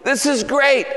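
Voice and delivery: father celebrating his son's return, overjoyed. Retold or imitated. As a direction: sound thrilled to have him home. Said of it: "and he goes".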